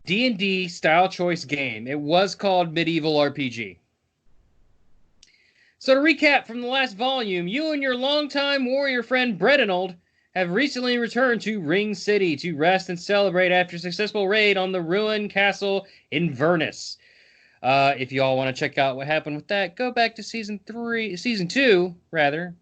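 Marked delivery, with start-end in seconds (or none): 5.8-17.0 higher-pitched recap read aloud; storyteller reading a recap; story narration. A narrator's reading. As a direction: read the adventure recap like a game master.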